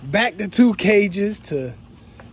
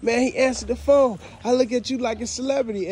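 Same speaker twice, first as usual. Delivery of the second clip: excited fan; 5 semitones higher than usual. Retold or imitated. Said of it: "people call me sometimes like".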